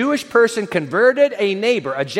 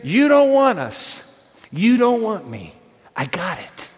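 hurt leaders quoted; slower than usual. Retold or imitated. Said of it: "The leadership of this faith community says".

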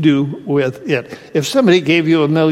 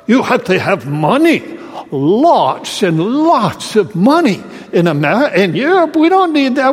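put-on Scandinavian accent; 5 semitones higher than usual. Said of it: "he said with his Scandinavian brogue".

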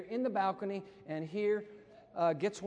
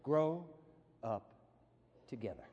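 tag; 4 semitones lower than usual. Shown as a demonstration. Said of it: "here's today's teaching in three words".

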